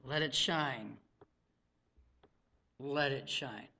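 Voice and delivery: low, soft refrain; hushed exhortation. Real, not acted. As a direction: drop low and quiet to urge them gently. Soft answer after the shouted no.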